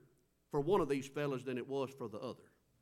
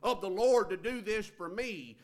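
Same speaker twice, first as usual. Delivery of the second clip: mock arrogance; 3 semitones higher, 6 dB louder than usual. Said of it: "arrogance and in pride when they approach".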